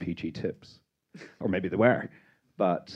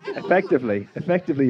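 laughing; 8 semitones higher, 6 dB louder, faster than usual. Real, not acted. Laughing while challenging the panel.

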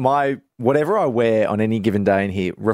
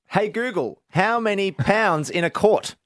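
higher, slow command to a smart speaker; talking to voice assistant; 9 semitones higher, slower than usual. Retold or imitated. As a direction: ask the speaker slowly and clearly.

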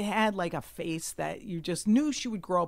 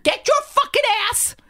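high, furious screamed order; very loud yell; 9 dB louder than usual. Retold or imitated. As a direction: yell it across the plane. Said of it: "that loud".

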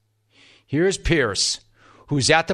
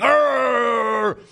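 drawn-out noise; 10 semitones higher than usual. Real, not acted. Comic bleep-like noise mid-sentence.

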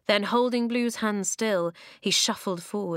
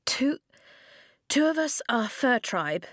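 stammering; 6 semitones higher than usual. A narrator's reading. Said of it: "Flint stammered".

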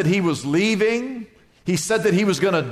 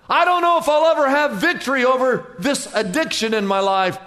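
struggling believer; 5 semitones higher than usual. Retold or imitated. Voicing an addicted believer.

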